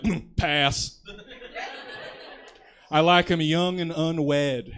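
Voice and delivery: slow, loud put-on dragon voice; dragon impression. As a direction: purr it out like a picky dragon. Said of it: "That was my impression of a dragon for you".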